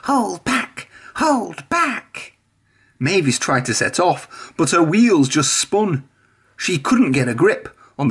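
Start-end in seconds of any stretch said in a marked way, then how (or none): 0.0-2.3 much higher cheeky trucks calling; mischievous trucks. A narrator's reading. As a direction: goad the engine, playful. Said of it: "the trucks whispered to each other".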